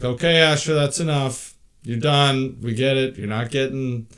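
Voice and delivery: put-on firm mom voice telling a persistent kid no; stern parent scolding.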